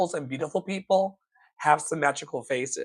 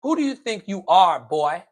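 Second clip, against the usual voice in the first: imitating stern father; 3 semitones higher, 4 dB louder than usual. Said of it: "my father, as a child, used to say".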